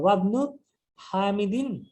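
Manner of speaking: slow teacher's model of ওয়াবনু হামিদিন; ওয়াবনু as one word, "wabnu", unhurried; pronounced joined together. Shown as a demonstration. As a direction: link wa and bnu in ওয়াবনু, drawing out হামিদিন. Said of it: "এখানে আমরা একসাথে উচ্চারণ করবো".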